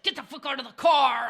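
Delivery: fast, snapping retold yell; mock yell at kids. Mom ordering kids out of the car, mock angry yell. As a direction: bark the kids out of the car, half in jest. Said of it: "yelling at the kids".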